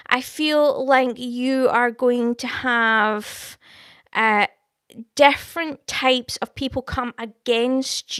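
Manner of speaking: slow, weighty prophetic pronouncement; slow prophecy. Real, not acted. Streamer prophesying over a viewer, slow and solemn. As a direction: lay each word down slowly like a prophecy. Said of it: "I'm gonna be prophesying over you".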